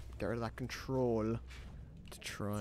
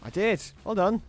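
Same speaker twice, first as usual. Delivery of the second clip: loud, higher victory shout; real excitement, pitched up and louder; triumphant cheer; 7 semitones higher, 7 dB louder than usual. Real, not acted. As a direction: celebrate the win out loud. Cheering own kill in game.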